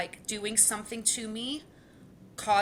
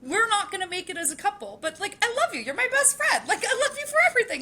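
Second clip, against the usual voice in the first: heartfelt apology to partner; 11 semitones higher, 4 dB louder than usual. Retold or imitated. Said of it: "And I said".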